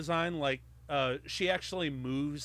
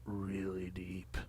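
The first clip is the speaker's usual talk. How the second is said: deadpan; 6 semitones lower, 6 dB quieter than usual. Real, not acted. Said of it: "deadpan quip, praised as delivery".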